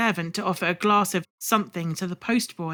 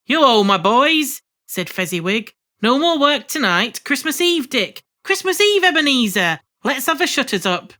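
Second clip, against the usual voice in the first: hearty, loud, cheerful master; rally the lads; jovial old boss; 5 semitones higher, 4 dB louder than usual. Acted. Fezziwig rallies his apprentices.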